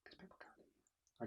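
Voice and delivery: voiceless whisper, barely there. Shown as a demonstration. Teacher showing what people can't hear, whispering. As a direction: whisper it so it hardly carries. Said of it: "No whispering".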